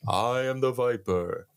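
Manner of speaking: slowed, eerie stranger voice; creepy voice. Retold or imitated. Stranger calls to the kid in the dark, slowed eerie voice. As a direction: draw it out to spook the kid. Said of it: "he goes".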